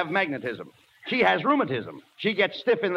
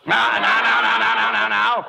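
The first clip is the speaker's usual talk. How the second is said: louder laughing now now now; laughing reproof; 3 semitones higher, 5 dB louder than usual. Acted. Straight man hushing partner's insults, laughing loud reproof. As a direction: hush him while cracking up.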